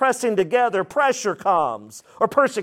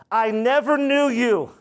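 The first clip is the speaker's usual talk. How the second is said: higher-pitched, firm declaration; emphatic pronouncement; 5 semitones higher than usual. Acted. Jesus declares to false followers, emphatic pronouncement. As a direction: declare it as a final verdict. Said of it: "Declare in the Greek is a emphatic pronouncement".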